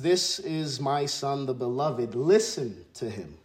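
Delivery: voice from heaven. Retold or imitated. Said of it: "we hear this voice that says".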